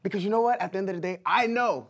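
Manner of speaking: wrestling promo. Pretend. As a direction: taunt the opponent. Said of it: "cut a promo on the fly".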